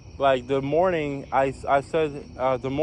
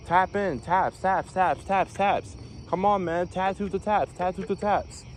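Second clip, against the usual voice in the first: watch-stander's call; 4 semitones higher than usual. Retold or imitated. Acts watch-stander ordering bedtime.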